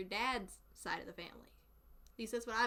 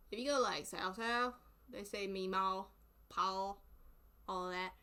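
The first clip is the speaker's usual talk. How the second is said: thick Southern accent; 3 semitones lower than usual. Real, not acted. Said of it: "I know my accent's thick".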